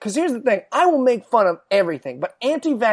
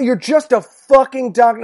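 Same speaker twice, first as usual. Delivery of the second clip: retold scream. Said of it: "I was just screaming".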